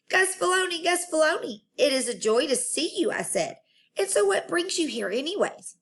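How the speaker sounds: put-on high, thrilled little-girl voice; excited greeting. Junie B greeting her favorite janitor, high and thrilled. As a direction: squeal his name with joy.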